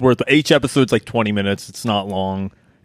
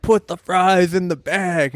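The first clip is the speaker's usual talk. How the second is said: mock heckling; 3 semitones higher, slower than usual. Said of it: "They're like".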